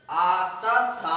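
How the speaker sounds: teacher stressing the long आ in तथा; slow sounding out. Shown as a demonstration. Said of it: "आ का उच्चारण हो रहा है".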